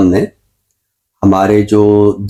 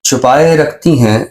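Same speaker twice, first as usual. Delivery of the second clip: ghazal recitation. Acted. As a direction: savour each line of the couplet. Recites his ghazal on air. (غزل کا ٹھہرا ہوا ترنم سے پاک پڑھنا)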